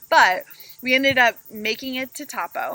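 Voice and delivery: usual speaking voice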